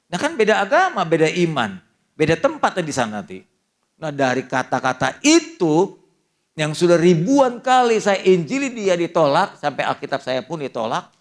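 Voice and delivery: a preacher shouting the turning point to the congregation; preaching climax. Acted. Climax of preaching about conversion.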